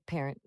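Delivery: "parent" with a careful ending; clear word ending. Shown as a demonstration. Tutor models "parent" for a learner, ending clearly sounded. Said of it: "Focus on that tin at the end".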